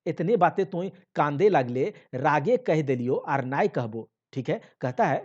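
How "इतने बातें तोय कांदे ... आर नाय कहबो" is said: coaxing. Acted. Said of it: "फिर से उसको पुचकार रहा है".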